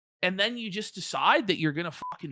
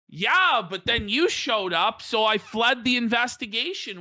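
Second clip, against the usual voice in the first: laughing mockery; 4 semitones higher than usual.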